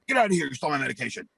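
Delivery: mock outraged eviction; retold angry order. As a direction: act out throwing someone out. Friend throwing him out.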